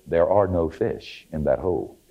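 low, measured pronouncement from an unseen voice; lightly voiced voice out of nowhere; mysterious voice from above. Unseen voice warning an ice fisherman, lightly solemn pronouncement. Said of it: "And a voice said".

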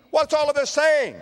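high, loud preacher's cry; full-force pulpit shout; preaching shout. Acted. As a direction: fling the question out to the crowd. Preacher cries out question.

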